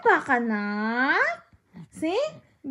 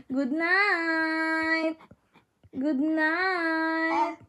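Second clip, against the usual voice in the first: long, drawn-out singsong good night; slow bedtime coo; much slower than usual. Real, not acted. Coaxing baby to say good night.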